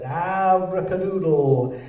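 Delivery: slow, drawn-out magic word. Acted. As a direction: announce the spell slowly. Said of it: "we'll say the magic word".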